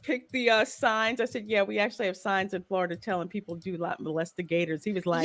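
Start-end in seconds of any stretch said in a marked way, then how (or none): 1.5-4.8 put-on Australian accent. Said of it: "I know my Australian accent sucks".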